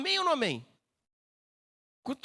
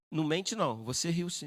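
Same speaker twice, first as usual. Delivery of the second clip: lower-pitched angel calling out a lie; firm contradiction; 5 semitones lower than usual. Acted. Angel telling Sara she did laugh, low firm contradiction. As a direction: correct them firmly without raising the voice.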